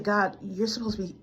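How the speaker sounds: a worn-out prayer that swells into despair; desperate plea. Retold or imitated. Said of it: "I said".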